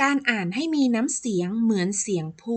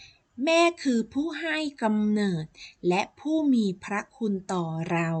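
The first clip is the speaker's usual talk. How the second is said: emphasize แม่, then ease off through the rest; stress on แม่. Shown as a demonstration. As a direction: lean on the word แม่, drawing the phrase out. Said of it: "เน้นคำว่าแม่".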